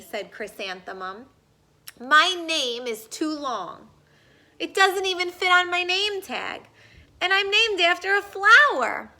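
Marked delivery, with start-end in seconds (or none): 2.0-9.1 louder, higher, building whine; building louder, higher wail; upset complaint. Acted. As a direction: complain rising to distress.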